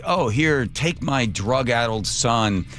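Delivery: hammed-up sleazy pitch to a buyer; mock Biden voice. Host mocking Biden offering his son, mildly hammed-up.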